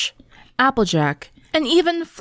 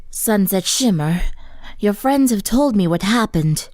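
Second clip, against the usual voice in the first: gentle concerned. Acted. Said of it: "Luna said, frowning".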